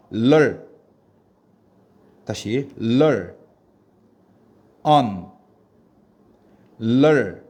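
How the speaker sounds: 럴 and on loud, each alone with a long gap; syllables said separately. Shown as a demonstration. Teacher has students repeat after her, syllables said separately. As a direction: drill 럴, then on, as two detached loud syllables. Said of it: "선생님 따라 해봅시다".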